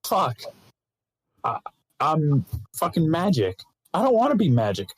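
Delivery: put-on panicky, childish plea rising to a squeak at the end; mock whiny hero. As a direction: beg to go home like a reluctant hero who never wanted this. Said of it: "it's like, it's like".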